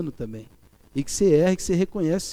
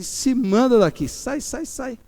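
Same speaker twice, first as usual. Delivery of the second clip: gruff order; 6 semitones higher, 4 dB louder, slower than usual. Retold or imitated. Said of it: "Eu cheguei e falei assim".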